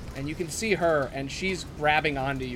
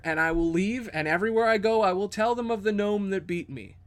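sly captured thief; 3 semitones higher than usual. Acted. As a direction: pitch up and deal your way out. GM voices thief's offer.

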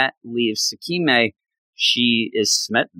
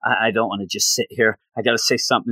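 lower, hurried thinking aloud; nervous self-talk; 4 semitones lower, much faster than usual. Retold or imitated. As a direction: imitate someone urging himself to speak. Acting out his nervous inner debate.

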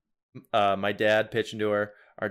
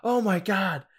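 pained mutter; 10 semitones higher, slower than usual. Retold or imitated. Dad shrugs off injury.

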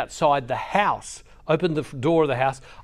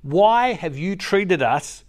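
mild frustrated mother; 3 dB louder than usual. Retold or imitated. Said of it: "you can see the anger and frustration in her".

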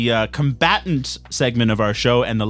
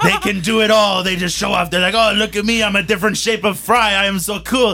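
mock offended ranting; 5 semitones higher than usual. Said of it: "being extremely offended".

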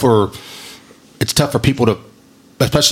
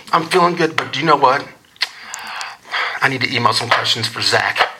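imitated mom; 2 semitones higher than usual. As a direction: make a mom's request, lightly mimicked. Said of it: "This is what it sounds like".

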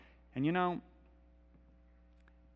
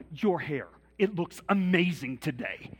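hammed-up gushing, higher, louder and slow; gushing compliment; 4 semitones higher, 8 dB louder, slower than usual. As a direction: lay the flattery on thick.

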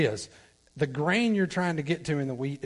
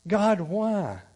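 Elijah crying out; 6 semitones higher, 6 dB louder than usual. Retold or imitated. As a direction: plead with God for the widow. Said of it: "calls out to God".

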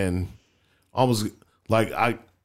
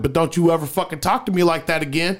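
retold warning; faster than usual.

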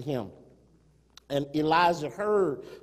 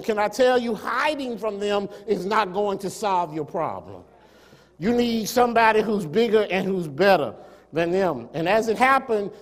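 raised, emphatic pulpit voice; impassioned preaching; 5 semitones higher, 4 dB louder than usual. Real, not acted. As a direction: preach it with conviction to the congregation. Preaches with rising force.

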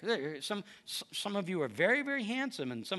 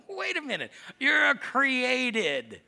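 God's gentle correction; 5 semitones higher, 5 dB louder, slower than usual. Retold or imitated. God correcting the proud listener.

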